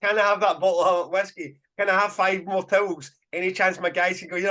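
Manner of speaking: put-on Northern Scottish accent. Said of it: "he's got a Northern Scottish accent".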